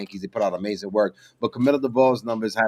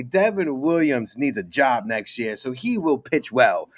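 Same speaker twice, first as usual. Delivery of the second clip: Grace Monroe; slower than usual. Retold or imitated. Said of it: "like the lovely Grace, Grace Monroe would say".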